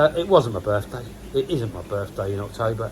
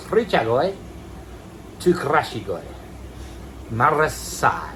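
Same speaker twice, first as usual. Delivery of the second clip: drawn-out, slow, put-on fish names; funny weird voice; 2 semitones higher, slower than usual. Vlogger listing his new koi in a funny voice. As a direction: ham up the koi names for fun. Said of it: "I said that in a funny, weird voice as well".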